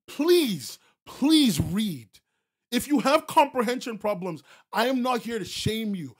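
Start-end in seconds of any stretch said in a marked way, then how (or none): 0.1-2.1 pleading. Real, not acted. Streamer pleading with chat to read, loud. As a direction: beg them to read.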